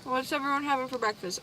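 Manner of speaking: talking through a mouthful; words round a bite of food; chewing while talking. Real, not acted. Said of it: "I'm so sorry for the chewing noises".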